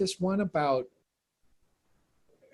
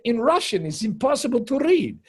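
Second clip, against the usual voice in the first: high, loud imitated tirade, hammering the point; angry Russian actress; 8 semitones higher, 6 dB louder than usual. Russian actress insisting it is unreadable in Russian, angry. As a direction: mimic her exasperated insistence. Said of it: "she got so angry at me".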